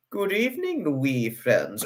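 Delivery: playful attempt at a Scottish greeting; Scottish impersonation. Greeting friends in Scotland, lightly put-on Scottish accent. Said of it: "the Scottish impersonation".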